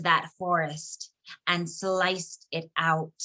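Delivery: measured poem recital, deliberate phrasing with pauses; poetry reading. Acted. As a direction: read your poem aloud, weighting each short phrase. Reads own poem aloud.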